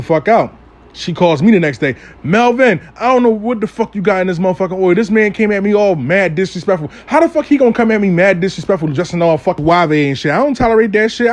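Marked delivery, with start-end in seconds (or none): 2.2-11.3 higher, fast, fed-up rant; a retold outraged client, pitched up; indignant woman ranting. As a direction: vent like she's had it with him. Client rants about disrespectful man.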